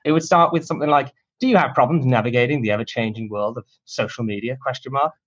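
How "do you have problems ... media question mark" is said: cheesy infomercial pitch voice. Shown as a demonstration. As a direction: sell it like a TV ad. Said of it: "in this ridiculous infomercial voice".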